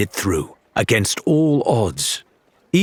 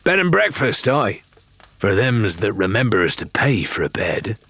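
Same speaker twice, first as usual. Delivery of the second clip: agreeable barkeeper. Acted. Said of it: "the barkeeper replied agreeably".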